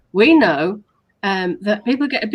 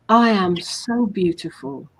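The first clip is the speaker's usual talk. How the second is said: slow affirmation. Shown as a demonstration. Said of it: "And then you say".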